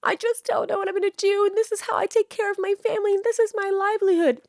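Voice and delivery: high whiny mock sob story; mocking creator. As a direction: parody a self-pitying influencer. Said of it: "look dead in the fucking camera and say".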